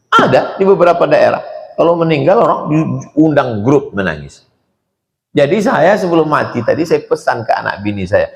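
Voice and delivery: ordinary talk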